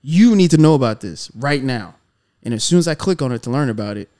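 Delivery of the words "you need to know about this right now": louder, punched opening word; urgent media demand. Retold or imitated. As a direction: push it like a pressing headline. Voices media pushing urgent news.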